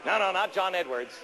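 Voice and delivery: booming Soviet comrade orator; fiery revolutionary speech. Acted. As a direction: rouse the comrades like a party propagandist. Mock Soviet propaganda address.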